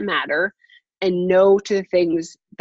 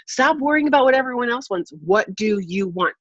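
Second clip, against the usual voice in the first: imitated movie yell; 4 semitones higher than usual. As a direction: demand it like an exasperated lover, without real shouting. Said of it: "he's yelling at her".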